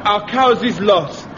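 slow, lightly voiced romantic French farewell; a mild stab at Boyer's lover voice; Charles Boyer impression. Pike doing Boyer for his platoon, slow and mild. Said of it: "do an impersonation of Charles Boyer".

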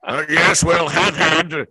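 slow, loud, barrel-chested announcer; big barrel-chested voice, slow and loud; big official voice. Shown as a demonstration. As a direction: boom it out slowly like an official. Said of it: "I think he would sound a lot like this".

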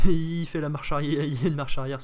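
laughing. Real, not acted. Laughing at plane reversing.

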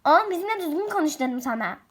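loud fast angry scolding; furious mother yelling a repeated order; angry shout. Acted. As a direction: shout the warning at the boy.

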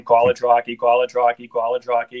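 put-on catchphrase in a Boston accent, dropped h. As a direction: chant it like a Boston sports fan. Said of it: "different things with the Boston accent".

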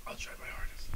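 breathless whisper. Real, not acted. Coughing streamer answering his friend, a faint whisper. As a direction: rasp it out with no voice. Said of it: "Do it (whisper)".

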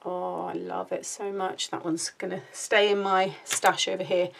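a little breathless while talking; out of breath. Real, not acted. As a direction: talk slightly winded. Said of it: "I'm out of breath for some reason".

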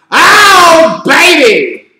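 high shouted exclamation; excited shout. Real, not acted. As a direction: belt it out like a fan.

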